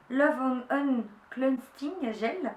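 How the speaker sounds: slow English product name in a French accent. Real, not acted. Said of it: "mon accent anglais". (anglais avec l'accent français)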